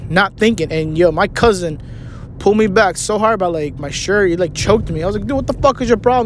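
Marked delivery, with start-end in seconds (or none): 5.3-6.3 retold indignant protest. Acted quarrel with cousin.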